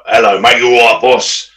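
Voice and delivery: lightly put-on local bloke; a hint of the matey geezer. Showing how some blokes sound, put-on bloke voice. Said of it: "you've got blokes that sound like that".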